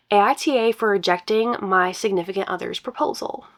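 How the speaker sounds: reading a post aloud; story narration. Acted. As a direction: brighter storytelling read.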